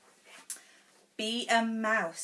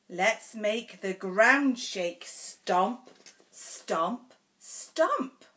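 bold stomp. Acted. Reads picture book to child.

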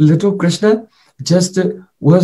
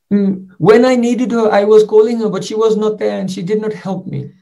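put-on tearful child; 4 semitones higher than usual. Little Krishna, tearful, complains to his father about mother. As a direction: let the tears rise as he blames his mother. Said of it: "tears started to come in Krishna's eyes".

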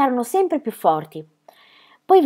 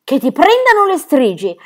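louder, higher shout after her; angry yell; 6 semitones higher, 8 dB louder than usual. Acted. Birk yelling a curse after Ronia, angry shout. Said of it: "le aveva urlato dietro".

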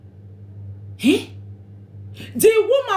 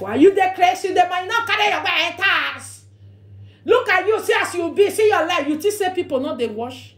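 mock scolding; 5 semitones higher than usual. To a man ignoring his wife, a raised scolding. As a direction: tell him off from up high.

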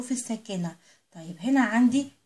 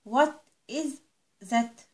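modeled question; much slower than usual. Shown as a demonstration. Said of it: "يبقى هنقول".

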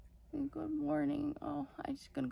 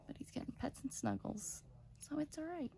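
whispering; 4 semitones higher, 7 dB quieter, faster than usual. Real, not acted. Whispering near puppies.

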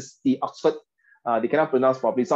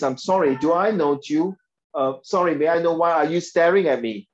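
courteous, even polite question; polite proper English; 2 semitones higher than usual. Shown as a demonstration. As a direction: ask it with good manners. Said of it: "So in a proper English is".

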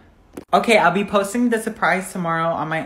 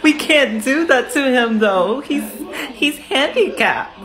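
appalled objection; 5 semitones higher than usual. Acted. Objecting to pushing a passenger off the bus, appalled protest. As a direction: stretch it out in mock outrage.

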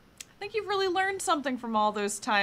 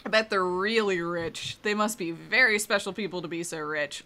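sneering; 3 semitones lower than usual. Acted. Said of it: "Um, sneer".

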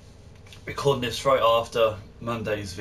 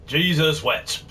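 shocked exclamation; 4 semitones higher, 5 dB louder, slower than usual. Real, not acted. Reacts to frame's look.

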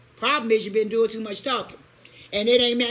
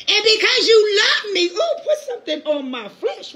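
voicing God; 8 semitones higher, 4 dB louder than usual. Preacher voicing God tenderly.

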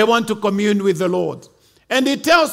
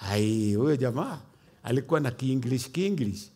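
mocking aside; 10 semitones lower, 10 dB quieter than usual. Real, not acted. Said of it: "Ulisikiaje hiyo kizungu".

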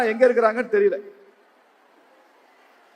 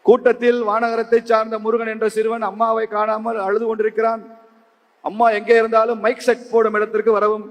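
even, sustained public-announcer recitation; village mic announcement; 2 semitones higher than usual. Retold or imitated. Announcer calls lost boy's mother to mic stand, formal announcement. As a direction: read it out formally over a festival loudspeaker. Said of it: "அப்படி கிராமத்துல அறிவிப்பாங்க".

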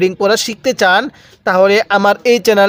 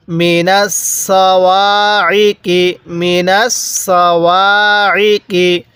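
slow, drawn-out recitation; model recitation; much slower than usual. Shown as a demonstration. Teacher showing how to read, slow recitation. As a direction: stretch the long vowels syllable by syllable.

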